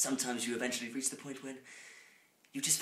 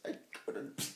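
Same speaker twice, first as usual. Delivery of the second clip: mock shout; 20 dB louder, slower than usual. Melodramatic reading climax.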